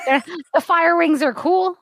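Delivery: giggling through the words; laughing. Real, not acted. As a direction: laugh as you say it. Laughing while talking.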